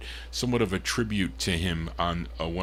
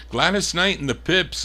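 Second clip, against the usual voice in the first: higher and louder, lifting on Knight; hyped artist call; 8 semitones higher, 4 dB louder than usual. Real, not acted. DJ hyping the artist to his chat room, excited announcer lift. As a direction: sell the group's name with a radio flourish.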